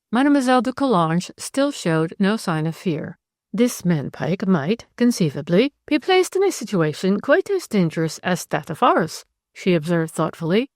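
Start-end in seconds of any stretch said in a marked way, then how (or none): 3.5-9.2 a cool Frenchwoman, voice lifted and unhurried; French lady. Acted. Narrator voices Zélie.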